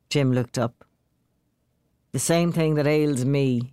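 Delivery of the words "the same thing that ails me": glum. Acted. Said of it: "he said glumly".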